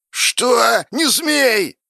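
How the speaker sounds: high-pitched, outraged cry; alarmed shout. Acted. Sloth forbidding Vanity's decision, shouting. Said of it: "закричал Лень".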